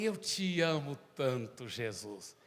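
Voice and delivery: put-on slow, tender childlike devotion without raising pitch; heartfelt retold declaration; retold tender prayer. Retells his childhood prayer to Jesus.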